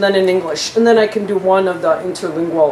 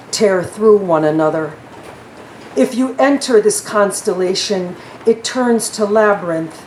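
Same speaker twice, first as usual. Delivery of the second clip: poetry reading; slower than usual. Acted. Reads her poem aloud.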